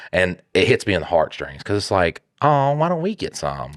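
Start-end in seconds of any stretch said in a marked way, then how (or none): 2.4-3.7 mock sad child. Kindergartners denied ices.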